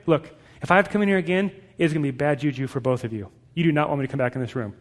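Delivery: quick, low-key mock threat; tired parent's threat. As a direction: rattle off a weary parental warning. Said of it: "when I'm tired".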